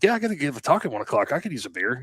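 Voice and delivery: breezy Canadian buddy wanting a beer; light Canadian impression, fast and high; quoting Rob. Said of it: "to quote Rob".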